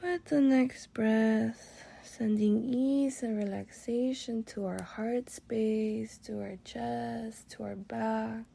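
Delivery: calm guided meditation with long pauses; relaxing meditation voice. Real, not acted. Guide leading listeners through breathwork and body relaxation, relaxing. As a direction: ease them unhurriedly through each breath, letting phrases settle. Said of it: "My voice is gonna shift to a little more relaxing".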